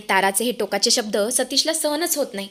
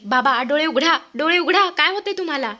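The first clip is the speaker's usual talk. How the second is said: panicked screaming; 4 semitones higher than usual. Acted. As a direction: call out to a collapsed father in terror. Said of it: "ती जोरजोरात ओरडायला सुरुवात करते". (घाबरून जोरात ओरडणे)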